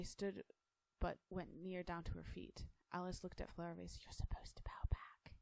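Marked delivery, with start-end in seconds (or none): 4.0-5.3 put-on man secretly coaching the girl at court; whisper. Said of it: "he whispered, smiling".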